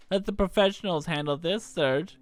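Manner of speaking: put-on cocky young troublemaker; Kid voice. Kid teasing Serge, lightly voiced brash girl. Kid's voice in visual novel.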